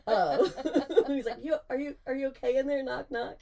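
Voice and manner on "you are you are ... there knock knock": higher-pitched call through a door; acted-out concerned check on a drunk friend; roommate checking in. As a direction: call in, imitating a worried roommate. Roommate calls through bathroom door.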